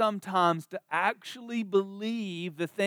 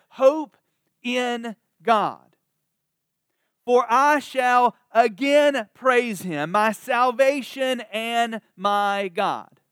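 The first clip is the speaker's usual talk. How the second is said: hopeful declaration; 4 semitones higher, 4 dB louder, slower than usual. Acted. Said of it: "He says".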